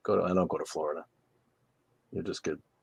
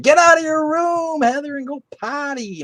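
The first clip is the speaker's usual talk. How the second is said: hollered order; 8 dB louder than usual. Pretend. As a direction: holler it high and stretch the words. Yelling advice at a student viewer.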